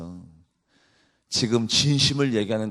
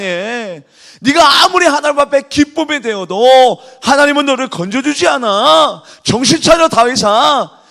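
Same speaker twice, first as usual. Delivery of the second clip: loud, high mocking shout; sarcastic taunting; 13 semitones higher, 11 dB louder than usual. Mockers yelling at David, loud scornful taunt. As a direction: jeer at him with full force. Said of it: "비아냥거리면서 조사하면서".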